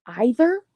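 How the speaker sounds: "Either" starting with "eye", rising; questioning "Either" as "EYE-ther"; eye-ther pronunciation. Retold or imitated. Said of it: "and I'm like".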